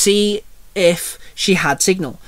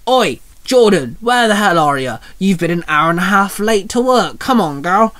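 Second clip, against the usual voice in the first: screaming boss; 3 semitones higher than usual. Acted. Boss scolds Jordan for being late to work, mock screaming. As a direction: berate a late employee, half shouting. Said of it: "her boss screamed back".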